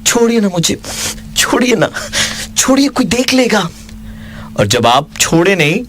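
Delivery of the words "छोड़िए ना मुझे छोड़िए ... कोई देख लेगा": man doing a woman's voice. Retold or imitated. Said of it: "और वो कहे".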